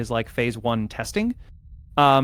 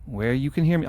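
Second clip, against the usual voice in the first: put-on New York accent; 3 semitones higher than usual. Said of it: "I don't know why I went New York accent".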